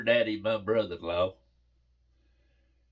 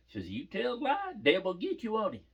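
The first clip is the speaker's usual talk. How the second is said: much higher, imitated little-girl insistence; adamant child; 10 semitones higher than usual. Daughter insists to Daddy that liars get taken, mock adamant. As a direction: plead the case like a cocksure kid. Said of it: "'cause she's having".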